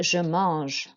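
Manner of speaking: "je mange" with nasal AN; careful French "je mange" for repeating; French nasal vowel. Shown as a demonstration. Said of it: "an A N is an en sound".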